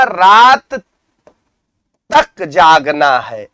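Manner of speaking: slow, with weight on "तक"; stress on तक. Shown as a demonstration. Teacher showing an emphatic particle to students, stress on "तक". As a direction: draw out "रात", then hit "तक" after a pause. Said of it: "अब हमने जोर किस पे दिया है".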